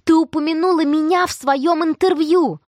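high, loud, thrilled rush; gasping with joy at the news; breathless with delight. Acted. Tina breathless with delight over the interview, squealing. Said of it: "Тина задыхалась от восторга".

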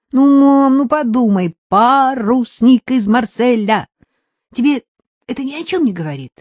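put-on high, loud, pleading little boy; insistent young boy. Son urges mother to guess, high and insistent. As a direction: press her like an impatient kid.

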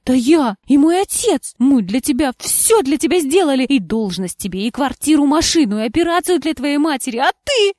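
loud, high indignant outburst; burning indignation. A narrator's reading. Indignant wife listing what she gave him, loud outburst. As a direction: throw it all back at him. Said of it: "жгучего негодования".

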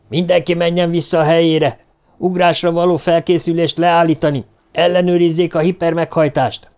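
loud, high commanding announcement; booming loudspeaker. Acted. Aratap commands the whole engine room over loudspeaker, booming. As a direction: bark orders over the ship's speakers. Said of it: "természetellenes harsánsággal megszólalt".

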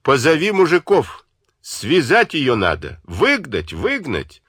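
furious shouted orders; angry shouting. A narrator's reading. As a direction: bark out the commands in a rage. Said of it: "крикнул работнице".

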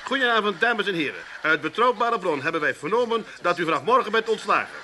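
lightly voiced newsreader parody; a hint of a formal evening news voice; mock news anchor. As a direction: announce the bad news like a TV anchor, tongue in cheek. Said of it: "Nee, met het journaal wel zeker".

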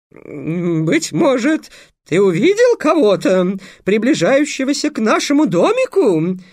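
very high, loud melodramatic falsetto; boy playing a girl in falsetto. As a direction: overact a princess in falsetto. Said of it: "пришёл на помощь брату Песя". (патетичный фальцет, парень играет девушку)

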